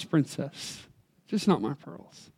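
soft pleading. Acted. Daughter begs daddy to spare her pearls, soft and low. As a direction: hush it down to a small begging plea.

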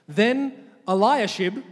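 slow, drawn-out Eliashib; calling out a name. Shown as a demonstration. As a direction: say Eliashib slowly, syllable by syllable. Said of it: "When I say a name, repeat the name".

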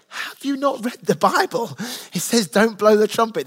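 half-playful disbelief at the question; incredulous. Retold or imitated. Pastor mocks churches that print givers' names, incredulous. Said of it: "I'm literally like".

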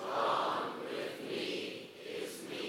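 slow, soft, unvoiced admission; whispered confession. Shown as a demonstration. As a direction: breathe it out like a private confession. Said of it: "Oh, much better".

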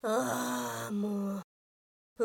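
exasperated whine. Acted. Officer exasperated by his rudeness.

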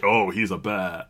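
low, understated "oh"; underwhelmed reaction. Retold or imitated. Film fan reacting to a not-big-enough Bear Jew, underwhelmed. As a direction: keep the realisation low and unimpressed. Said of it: "not big enough that this is like".

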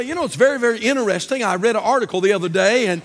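idle, unhurried small talk; mock monotone. Idle airbag facts to a driver near a cliff, mock monotone. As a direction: chat as if there were no danger. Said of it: "you don't use that kind of voice".

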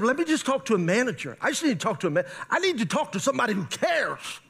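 insistent, mounting exasperation; exasperated demand. Retold or imitated. Fed-up customer to an unhelpful call center agent, exasperated. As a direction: plead with mock-dramatic exasperation. Fired-up caller demanding a manager.

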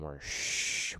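soft whisper with a drawn-out shh. Shown as a demonstration. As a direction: whisper it like soothing a baby. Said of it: "we're shushing that motherfucker".

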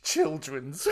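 giggling over the slip; laughing at his own flub; laughing at himself. Real, not acted. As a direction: chuckle at the misspoken word. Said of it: "children's in it".

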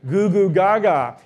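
put-on cooing baby babble; baby talk. Shown as a demonstration. Pastor cooing baby talk at the congregation. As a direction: coo it like talking to an infant.

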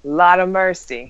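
slow mock Jamaican accent; mimicked Jamaican accent. Teasing a friend for denying being Jamaican, mimicked Jamaican accent. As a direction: imitate the Jamaican accent, drawn out. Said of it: "That wasn't even me".

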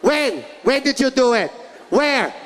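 mock mom interrogation. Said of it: "That's how my mom disciplined".

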